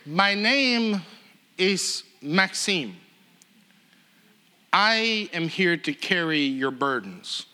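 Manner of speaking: slow, deliberate foreign speaker's English; halting, slowed-down introduction; careful English. Retold or imitated. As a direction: imitate a newcomer measuring out each word. Voicing Maxim's careful English introduction.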